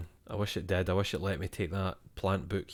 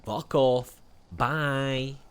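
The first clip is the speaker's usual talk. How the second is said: harsh mock brush-off; 4 semitones higher, much slower than usual. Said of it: "It's so harsh".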